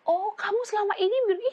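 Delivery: high, loud accusing cry; mock accusing shout; accusing outburst. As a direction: blurt out the accusation. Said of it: "Kadang-kadang orang gini loh".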